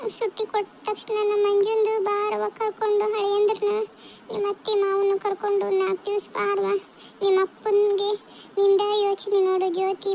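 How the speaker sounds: mildly tearful acted pleading; tearful invitation. Mother asking her married daughter to visit, mildly tearful. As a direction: coax her to visit, a touch choked up. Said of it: "ಯಾಕ್ ಅಳ್ತೀರಿ ಅಂತ".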